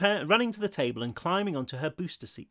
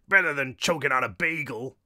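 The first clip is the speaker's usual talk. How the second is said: Brooklyn retort at usual pitch; thick Brooklyn accent. A narrator's reading. Short ghost answering the taunt, Brooklyn accent. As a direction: fire back in a Brooklyn accent. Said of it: "this one with a thick Brooklyn accent".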